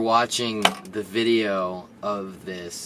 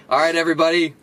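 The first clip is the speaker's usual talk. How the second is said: loud, high-pitched rallying holler; mock foreman shout; 8 semitones higher, 6 dB louder than usual. Construction boss addressing his crew of felons and dropouts, mock foreman shout. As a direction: holler it like a hammed-up site boss.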